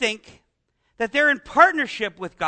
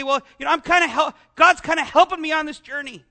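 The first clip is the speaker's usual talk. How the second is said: mock quote; 3 semitones higher, 5 dB louder than usual. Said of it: "someone to say".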